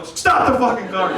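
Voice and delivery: acted outburst at the Uber driver; mock urgent yell. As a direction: yell it out in comic panic.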